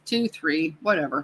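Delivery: bad Chicago accent impression; a weak stab at a Chicago accent. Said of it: "Worst Chicago accent impersonation ever".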